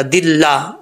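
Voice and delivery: दिल्ला with a light "llaa"; thin lam. Shown as a demonstration. Teacher showing the thin reading, light lam. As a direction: keep the doubled l of दिल्ला thin. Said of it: "ये बारीक पढ़ा जाएगा".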